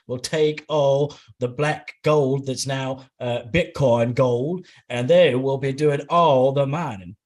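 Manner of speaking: a slow, loud, joking Southern twang; mock Southern accent. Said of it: "these amazing Southern accents".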